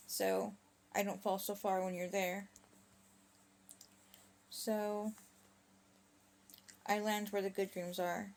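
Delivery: put-on measured spoken-word retelling of a child; lightly voiced son, in storytelling cadence; recited child's plea. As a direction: recite the little boy's words in deliberate phrases. Recites young son's bedtime speech.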